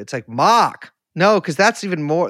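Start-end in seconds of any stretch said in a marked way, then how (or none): 0.3-0.9 mid-Atlantic accent. Shown as a demonstration. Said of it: "that's like mid-Atlantic".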